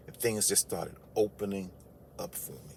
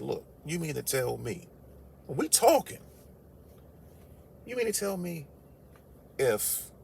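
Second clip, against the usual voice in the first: incredulous; 3 semitones higher, 6 dB quieter than usual. Retold or imitated. Incredulous retold rant to guard.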